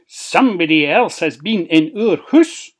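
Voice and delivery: loud cry of discovery; dwarf crying out loudly. Acted. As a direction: call out the alarm to the other dwarfs. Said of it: "cried Nebby".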